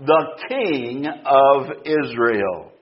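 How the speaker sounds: slow, weighty "The King of Israel" with stress on "King"; emphatic phrase. Shown as a demonstration. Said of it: "It's emphatic".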